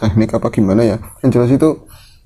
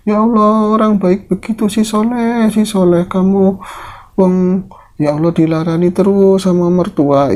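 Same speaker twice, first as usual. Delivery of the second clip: high-pitched acted lament, mildly tearful; 9 semitones higher than usual. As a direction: mourn a good man as the old woman, without real sobs. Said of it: "malah nangisnya lebih sesenggukan". (ratapan nenek, pura-pura menangis)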